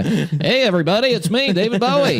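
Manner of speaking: high, off-target comic's voice; a singer. Shown as a demonstration. Greeting everybody as the singer, high put-on comic voice. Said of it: "Mark Norman?".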